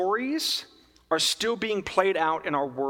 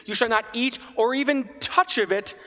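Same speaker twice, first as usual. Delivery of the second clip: Eve's words, emphasized; 4 semitones higher than usual. Retold or imitated. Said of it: "if you listen to Eve".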